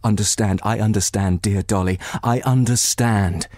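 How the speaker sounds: calm her like a sister would; gentle comfort. Acted. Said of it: "pressing her hand".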